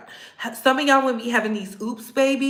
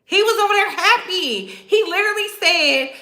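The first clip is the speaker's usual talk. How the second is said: high laughing disbelief; giggling in disbelief; 7 semitones higher than usual. Real, not acted. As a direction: laugh through the words. Laughing at the scene.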